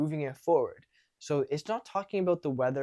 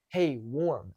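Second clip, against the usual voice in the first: warm, measured greeting. Shown as a demonstration. Coach corrects the over-friendly hello, warm. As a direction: keep it warm without overdoing it. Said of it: "make it warm".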